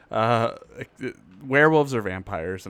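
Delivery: speaking between hiccups. Real, not acted. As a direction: voice jumps with a hiccup. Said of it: "I have the hiccups".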